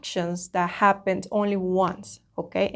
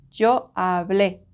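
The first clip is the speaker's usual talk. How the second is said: hablé with the final É stressed, slow. Shown as a demonstration. Teacher to students, slowly stressing the final é. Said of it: "Please make emphasis that".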